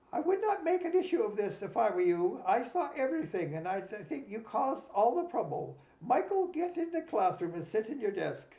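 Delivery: retold rebuke in a Jamaican accent. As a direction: imitate a Jamaican teacher laying down the law. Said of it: "he had that, uh, Jamaican accent".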